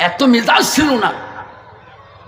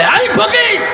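sharply raised pitch, acted shout; retold rebuking call; 13 semitones higher than usual. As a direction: call the beggar out as the angry caliph. Caliph rebukes the beggar.

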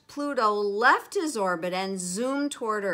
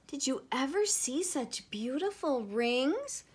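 vain, higher put-on voice; Saturn; 4 semitones higher than usual. A narrator's reading. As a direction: preen over your own beauty, pitched up. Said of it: "Saturn was too vain".

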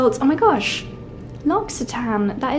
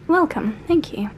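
breathy whisper, a little higher; whispered welcome; 4 semitones higher than usual. Pretend. Reading hotel screen greeting.

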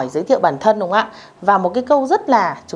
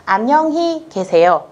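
slow model reading; 3 semitones higher, slower than usual. Shown as a demonstration. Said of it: "câu thứ hai".

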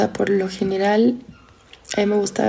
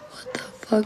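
whispered under the breath; shocked whisper; 7 dB quieter than usual. Real, not acted. Reacting to chat, a stunned whisper. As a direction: breathe it out in disbelief.

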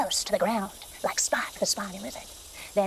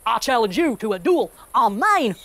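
villain challenge; 4 dB louder than usual. Acted. Rex challenges sheriff.

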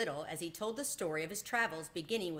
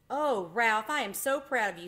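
proud mother, higher and louder; relieved pride; 5 semitones higher, 7 dB louder than usual. A narrator's reading. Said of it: "said his mother with a sigh of relief".

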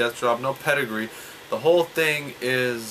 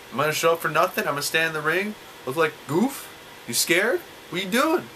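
higher-pitched, incredulous mock taunt; mock taunting challenge; 5 semitones higher than usual. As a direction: act out a wrestler calling out a no-show. Voicing wrestler taunting a no-show opponent.

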